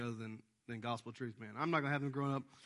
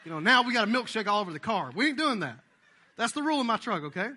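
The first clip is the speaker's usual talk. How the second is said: loud, higher, through laughter; laughing rule; 6 semitones higher, 9 dB louder than usual. Real, not acted. Preacher telling the church his truck rule, laughing.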